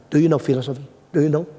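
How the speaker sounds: pointed challenge at normal pitch; challenging. Retold or imitated. Student challenges preacher on philosophy, pointed challenging question. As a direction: quiz them as a dare.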